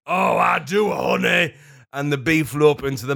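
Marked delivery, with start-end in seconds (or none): 0.1-1.5 high, loud hammed-up cry; mock bee shout. The bee answering Pooh in a hammed-up high shout. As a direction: yell it like a bee with crossed legs. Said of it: "as if to say".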